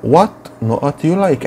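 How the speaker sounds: lightly voiced market seller; playing the seller. Shown as a demonstration. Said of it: "قال لها إيه؟".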